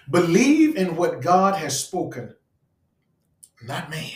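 deliberate comma pause before "not man". Real, not acted. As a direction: stop after "spoken", then set "not man" apart. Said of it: "I put a comma right there".

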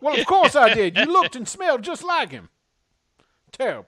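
high, loud offended voice; indignant character. Acted. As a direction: scold him in a high huff. Character defends himself indignantly.

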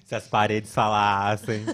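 laughing. Real, not acted. Laughing innuendo.

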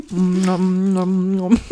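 genüssliches Schmatzen vor dem Mikro; laut mampfend für ASMR; Essens-ASMR. Pretend. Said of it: "A S M R". (Essgeräusche wie im ASMR)

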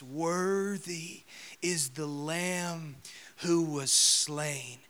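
slow, weighty recital of a heavenly hymn; loud-voice proclamation. Acted. Preacher voicing the angels' praise, solemn slow proclamation. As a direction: proclaim it slowly, phrase by phrase. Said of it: "saying with a loud voice".

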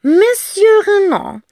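high, slow giggling name. Acted. (kichernd gesprochen)

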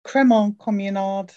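Cremont said as "cremon", no T; silent T in Cremont. Shown as a demonstration. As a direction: drop the final T of Cremont. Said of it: "without pronouncing the T in the middle".

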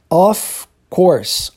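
"Of course" drawn out, the "f" held toward "course"; linking, first step. Shown as a demonstration. Teacher begins joining the two words, drawn-out linking. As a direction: stretch "Of" and slide it toward "course". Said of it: "você une as duas".

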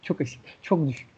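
whispering. Real, not acted. Echoing friend's words in whisper.

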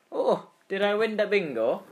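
high, light, dazed and clueless; dazed kid. Retold or imitated. Kid standing up after the crash, high and dazed. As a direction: play the stunned kid who doesn't get it. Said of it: "I'm just standing up there like".

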